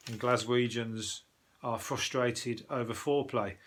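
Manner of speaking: slowed-down reading aloud; news read. Acted. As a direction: read the report out deliberately, word by word. Reads the article aloud.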